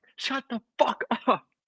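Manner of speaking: mock yelling, very high pitched.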